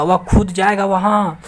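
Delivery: खुद drawn out with slow, deliberate force; emphatic stress. Shown as a demonstration. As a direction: hit खुद and stretch the line. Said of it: "चिल्ला के बोलेगा".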